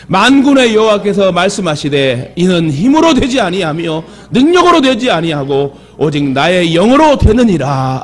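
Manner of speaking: measured, drawn-out Bible reading; scripture reading. Acted. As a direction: read the verse out slowly and solemnly to the congregation. Reads scripture aloud to congregation. (천천히 성경을 봉독하듯)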